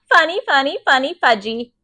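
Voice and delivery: put-on high, gleeful little-kid chant; giddy sing-song child voice; laughing toddler. A narrator's reading. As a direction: bounce through it like a tickled toddler. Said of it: "Fudge laughed".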